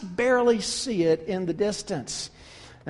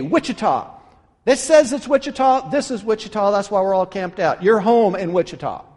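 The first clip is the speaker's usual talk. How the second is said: put-on insistent old man. Camper spelling the sign to the traveler, stubborn and firm. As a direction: talk down to the stranger, sure he's right.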